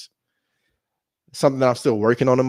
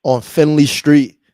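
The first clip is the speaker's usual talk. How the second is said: louder and slower so the caller hears; raised voice, slowed down for a caller; repeating louder; 4 semitones higher, 10 dB louder, slower than usual. Real, not acted. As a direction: spell it out over a bad line.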